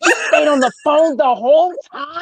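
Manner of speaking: high, amazed mock disbelief; retold astonishment; incredulous question. Acts out disbelief at him waiting.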